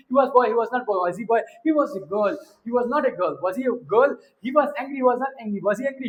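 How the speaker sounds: quick-fire grammar drill; brisk run through statement, negative, question; sped-up drill. Shown as a demonstration. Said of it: "speed बढ़ाए, speed जैसे ही बढ़ाएंगे".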